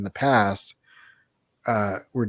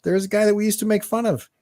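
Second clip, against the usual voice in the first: much higher put-on quoting voice; imitated movie character; 11 semitones higher, faster than usual. Dancer explains to onlookers, imitated in high voice. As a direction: play the film guy explaining, pitched up. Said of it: "And he's like".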